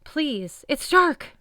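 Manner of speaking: high, loud terrified yell; panicked shout; frightened yell. A narrator's reading. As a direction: beg against the dark. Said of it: "Chris yelled".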